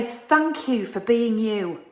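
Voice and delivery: slow, sincere thank-you; slow and earnest, from the heart; heartfelt thanks. Shown as a demonstration. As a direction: say it like you truly mean it. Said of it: "Mean it more than you have ever meant it before".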